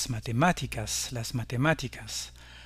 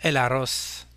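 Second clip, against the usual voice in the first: el arroz stressed on RROZ; stress on last syllable; slower than usual. Shown as a demonstration. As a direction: say el a-RROZ, leaning on the ending. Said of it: "L'accent portera donc sur la dernière syllabe".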